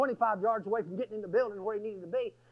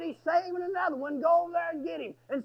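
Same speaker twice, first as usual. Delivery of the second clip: higher-pitched retold call; urgent summons; 6 semitones higher, faster than usual. Guard sending preacher to the dormitory, urgent summons.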